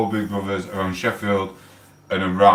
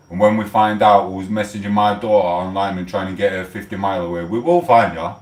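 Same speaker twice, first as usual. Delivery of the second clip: angry; 3 dB louder than usual. Real, not acted. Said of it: "Sorry, I'm getting angry".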